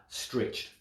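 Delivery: breathy whisper, voice dropped away; whispered word. Acted. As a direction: let the word sag out in a whisper. Word stretched, said as if exhausted.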